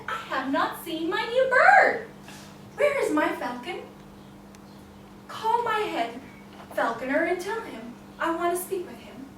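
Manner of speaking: a king wanting his bird back; king's voice. Acted.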